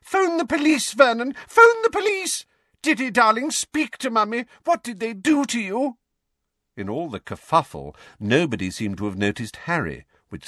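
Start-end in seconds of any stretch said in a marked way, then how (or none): 0.0-6.0 high, shrill panicked shriek; panicked scream. A narrator's reading. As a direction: scream for the police in terror. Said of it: "Aunt Petunia screamed".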